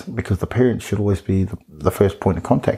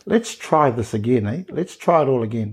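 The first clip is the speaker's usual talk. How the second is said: teacher voice; 2 semitones higher than usual. Retold or imitated. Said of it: "you put on that sort of teacher voice".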